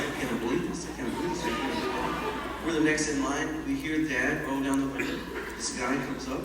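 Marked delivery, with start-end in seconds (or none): 0.0-2.6 imitated brother muttering, fading to a whisper; hushed disbelief. Scared brother beside his siblings, hushed disbelieving mutter. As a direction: repeat it under your breath, slowing at the end.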